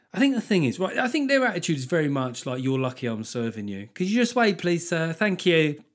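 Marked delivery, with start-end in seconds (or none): 2.6-5.8 mock shitty tone. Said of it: "They've got a slightly shitty tone about them".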